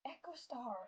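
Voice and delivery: called out high and loud; shouting a name. Acted. Warrior shouts to collapsed leader, loud and high. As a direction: cry her leader's name. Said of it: "she sh-, she shouted".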